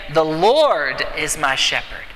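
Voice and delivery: "Lord" leaned on, said slowly and weighted; stress on Lord. Shown as a demonstration. Pastor demonstrates meditating on one word, stress on "Lord". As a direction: dwell on the word "Lord" at an unhurried pace. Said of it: "The Lord, the name there is Yahweh".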